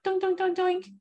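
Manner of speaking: put-on noisy little kid. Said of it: "a little kid that was like".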